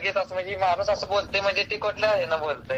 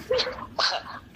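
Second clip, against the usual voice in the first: a short airy burst of laughter; soft unvoiced chuckle; breathy laugh; 5 dB quieter than usual. Real, not acted. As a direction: laugh off the joke under your breath. Laughs at her feet joke.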